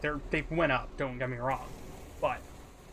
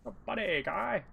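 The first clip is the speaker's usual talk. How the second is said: Canadian bit; 6 semitones higher, 4 dB quieter than usual. Retold or imitated. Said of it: "like a marketing voice".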